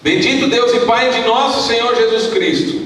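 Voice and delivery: high, projected Bible reading; scripture reading. Acted. Pastor reading Efésios to the church, solemn declamation. Reads scripture aloud to congregation.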